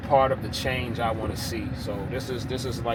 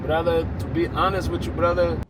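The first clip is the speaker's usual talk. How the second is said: put-on Iranian accent; 4 semitones higher than usual. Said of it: "excuse my accent".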